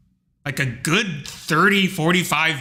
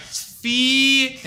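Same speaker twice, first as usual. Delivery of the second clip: surprised clerk; 8 semitones higher than usual. Retold or imitated. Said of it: "And they're like".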